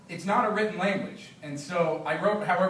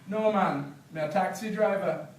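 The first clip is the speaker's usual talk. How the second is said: Jamaican patois; 3 semitones higher than usual. Acted. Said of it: "read some patois so you can hear".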